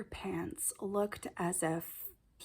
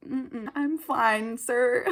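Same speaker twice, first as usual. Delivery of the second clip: polite firm refusal; 2 semitones higher, 5 dB louder, much slower than usual. Retold or imitated. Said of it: "So I was like".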